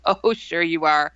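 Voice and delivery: dry, retold sarcasm; smart aleck. Narrator doubts friend's claim to be alien, smart-aleck. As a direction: answer with mock agreement, doubting it. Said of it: "I'm being a smart aleck".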